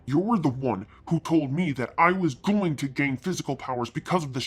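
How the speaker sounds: angry retort. Acted. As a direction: push back at him hard. Arguing with Satan.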